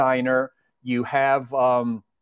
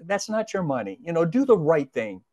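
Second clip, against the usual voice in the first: very kindly; 4 semitones higher than usual. Retold or imitated. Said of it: "very kindly say".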